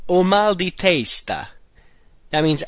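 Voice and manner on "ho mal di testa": slow, careful Italian model phrase. Shown as a demonstration. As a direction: lay out each word for the learner. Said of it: "The first one we're going to learn is".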